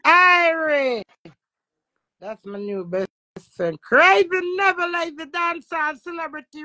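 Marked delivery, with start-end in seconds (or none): 0.0-1.0 excited cry. Real, not acted. Answering friend's greeting.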